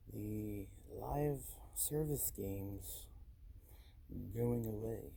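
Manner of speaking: speaking in a posh voice; a posh, careful delivery. Real, not acted. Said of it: "I don't know why I'm talking posh like this".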